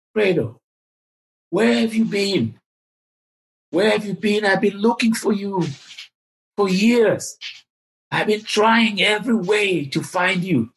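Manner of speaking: lightly imitated humble warmth; humble, laid-back. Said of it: "in a very humble, very laid-back voice says".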